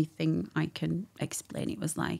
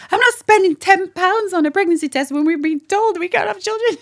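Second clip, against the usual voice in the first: retold protest; 13 semitones higher, 12 dB louder than usual. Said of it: "I think actually I said".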